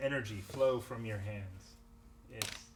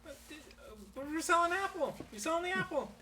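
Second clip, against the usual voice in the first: goblin voice. Acted. GM voices goblin pleading innocence.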